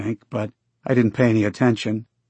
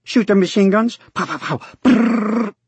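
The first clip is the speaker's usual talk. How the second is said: excited; 11 semitones higher than usual. A narrator's reading. Boy playing war, gun noises.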